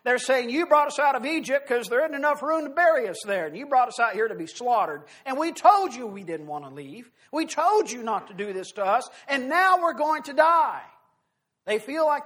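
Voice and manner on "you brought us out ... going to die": panicked complaint. Acted. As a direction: whine at Moses, rising into panic. Voices terrified Israelites complaining to Moses.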